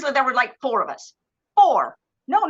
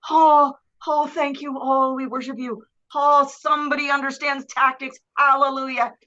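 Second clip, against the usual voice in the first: mock relieved worship. War unit's relieved reply, acted.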